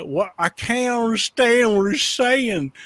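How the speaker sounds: puzzled commenter, hammed up; mock bafflement. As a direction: imitate a baffled listener, stretching the words. Acting out baffled listeners' comments.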